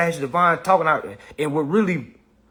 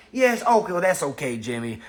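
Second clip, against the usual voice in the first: soft coddler. Retold or imitated. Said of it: "somebody that's gonna be like".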